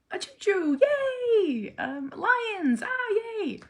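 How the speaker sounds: high, bright cheers to get a smile; excited cheering. Retold or imitated. Mom cheering her son to make him smile, excited high voice.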